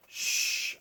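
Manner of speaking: soft unvoiced shush. Parent shushing sleeping babies, soft hush. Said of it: "babies asleep".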